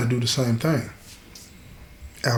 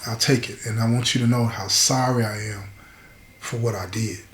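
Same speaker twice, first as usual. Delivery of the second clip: hushed confession, trailing softer; grateful, remorseful man; 4 dB quieter than usual. Acted. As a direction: voice an understated heartfelt apology. Voices man grateful and apologetic.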